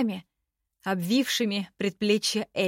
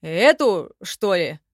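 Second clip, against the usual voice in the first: louder, wrinkled-nose goblin scorn; scornful; 5 dB louder, slower than usual. A narrator's reading. Goblin Nanga mocks the elf's chainmail, louder. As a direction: sneer at the rusty mail. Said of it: "наморщился гоблин".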